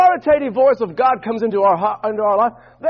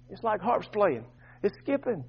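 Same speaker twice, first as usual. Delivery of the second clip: sudden hush; 10 dB quieter than usual. Shown as a demonstration. Voice drops to picture harps.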